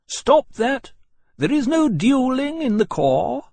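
very high, loud, slow command; shouted order. A narrator's reading. Senior officer forbidding a duel, shouted order. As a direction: call a halt with loud authority.

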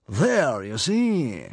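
high, loud ta-da; triumphant. A narrator's reading. Stranger pulls off his headgear, triumphant. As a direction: show them you were right. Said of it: "said the man triumphantly".

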